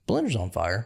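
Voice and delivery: calm, unbothered fire report; lightly imitated deadpan alarm; chillest voice. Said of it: "in the chillest voice you can imagine".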